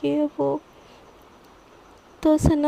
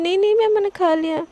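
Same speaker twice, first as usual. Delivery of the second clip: quick, higher, louder no-no; flustered refusal; 4 semitones higher, 4 dB louder, faster than usual. Acted. Sana refusing her boss's food: flustered higher, louder refusal. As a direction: brush it off in a panic.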